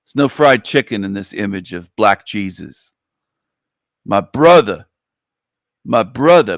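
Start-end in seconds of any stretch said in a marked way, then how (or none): 4.0-6.6 character voice. Acted. Voiced greeting.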